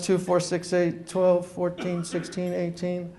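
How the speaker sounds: each number read back slowly and softly; slow deliberate reading. Retold or imitated. Reading the agent's number back at a slow, pointed pace. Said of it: "he gives it really fast".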